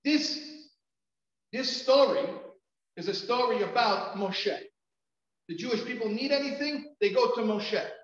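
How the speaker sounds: high, loud outburst building to a full shout; loud, high-pitched retold tirade; retold screaming. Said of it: "I was screaming at the top of my lungs".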